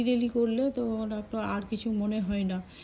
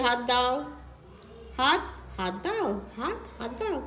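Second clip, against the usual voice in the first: pet talk; 6 semitones higher, 8 dB louder than usual. Real, not acted. Coaxing pet to give paw.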